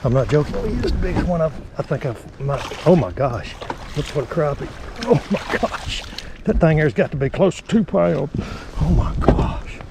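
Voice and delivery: rising excitement over a giant fish; breathless oh my gosh, half gasped; excited. Real, not acted. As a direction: gasp it out, barely believing the size. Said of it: "I'm getting excited".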